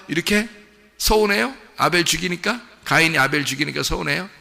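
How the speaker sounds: teasing challenge. Real, not acted. Teasing questions to the congregation.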